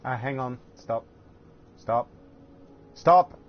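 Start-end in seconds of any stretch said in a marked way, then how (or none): 1.8-2.1 raised voice. Real, not acted. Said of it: "Sorry for shouting very loud". 2.9-3.4 loud sharp yell, pitched high; shouting. Real, not acted. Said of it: "Sorry for shouting very loud".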